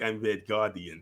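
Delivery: low, slow, proud hero voice; Red Guardian impression. The hero introduces himself to a stranger, low and slow. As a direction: puff up and announce yourself like a big hero. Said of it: "He was like".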